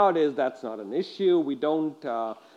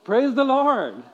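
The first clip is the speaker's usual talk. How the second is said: higher, louder call to the congregation; rousing call; 8 semitones higher, 6 dB louder than usual. Shown as a demonstration. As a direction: lift the room with it. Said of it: "Can you say that?".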